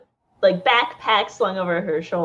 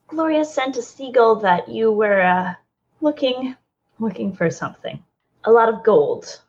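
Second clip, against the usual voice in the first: nervous; 2 semitones higher than usual. Acted. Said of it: "nervous to be back in the city".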